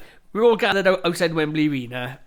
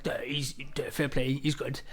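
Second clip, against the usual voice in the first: low-key retold reaction; 3 semitones lower, 9 dB quieter than usual. Retold hungover reaction watching TV.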